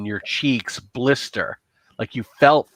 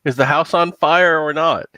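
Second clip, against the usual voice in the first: put-on slightly raised little-boy voice, mildly afraid; scared little boy; 5 semitones higher than usual. Little boy asks Mommy about the fire, mildly scared. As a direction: lightly voice a worried small child. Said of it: "And the little boy's like".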